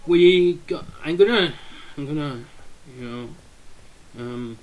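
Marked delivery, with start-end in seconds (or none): 0.0-0.8 louder, bursting with excitement; can't hold the excitement in; excited. Real, not acted. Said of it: "Sorry, I'm excited". 1.0-1.5 loud excited blurt of gonna. Real, not acted. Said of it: "Sorry, I'm excited".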